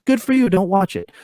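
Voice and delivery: high mocking good riddance; sarcastic dismissal. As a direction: wave off the quitter mockingly. Dismissing a fan who quits.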